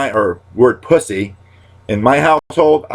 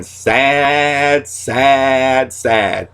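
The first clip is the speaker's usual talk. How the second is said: mock sad catchphrase; 5 semitones higher, much slower than usual. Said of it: "And now my new saying".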